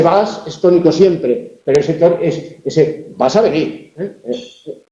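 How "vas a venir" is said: vas a venir slowed, with weight on vas; emphatic stress. Shown as a demonstration. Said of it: "Eso es el énfasis".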